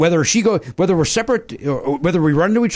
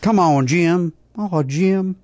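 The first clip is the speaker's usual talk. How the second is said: roommate Kurt; 5 semitones higher, much slower than usual. Retold or imitated. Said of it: "another phrase that he would".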